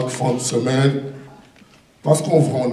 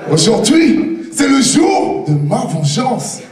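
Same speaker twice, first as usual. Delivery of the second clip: fired up; 6 semitones higher than usual. Acted. Vengeful declaration.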